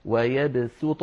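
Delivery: ويبسط with a plain, light s; careful, clear s in ويبسط; sin in ويبسط. Shown as a demonstration. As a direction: say ويبسط with sin, not an emphatic sad. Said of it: "نقرأها بالسين".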